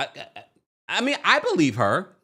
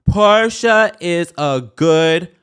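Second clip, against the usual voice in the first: slow, loud, slurring through laughter; laughing; 2 semitones higher, 10 dB louder, much slower than usual. Real, not acted. Vlogger retrying the Portia line, laughing loudly. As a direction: push the words out while cracking up. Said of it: "I'm slurring".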